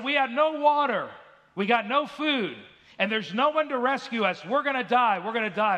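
high, loud mock-panic wail; hammed-up cry of doom from a stranded fisherman; retold panic. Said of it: "He was panicking. He was scared".

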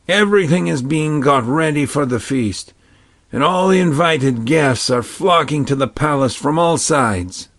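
a hint of an old man telling news.

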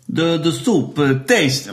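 put-on a touch of Italian accent; lightly put-on Italian accent in a joke. Waiter and diner discussing soup, slight Italian accent. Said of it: "I'm doing an Italian accent".

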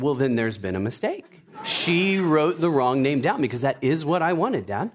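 imitating a British kid protesting; lightly put-on British child's accent; cute British accent. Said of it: "said it with that cute British accent".

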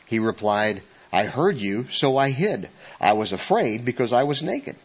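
scripture reading. Acted. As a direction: read it out like scripture. Reads Genesis aloud to congregation.

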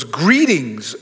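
low, formal "Greetings." said solemnly; angel's greeting. Retold or imitated. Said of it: "the angel goes".

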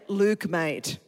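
"Luke, mate" in an Australian accent. Shown as a demonstration. Preacher teaching an American church, Australian accent. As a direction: model casual Australian speech. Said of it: "I'm gonna teach you Australian".

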